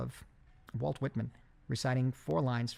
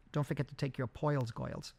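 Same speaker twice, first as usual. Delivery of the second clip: put-on old New York accent. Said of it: "she would, uh, say".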